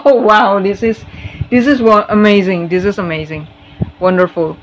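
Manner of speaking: overwhelmed with delight; excited wow. Real, not acted. Overwhelmed by card reading. (takjub bersemangat, suara lebih keras)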